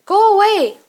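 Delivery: high, loud shout of dismissal; angry yell. Acted. Upset friend shouting through her closed door, angry yell. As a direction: yell it to drive someone off.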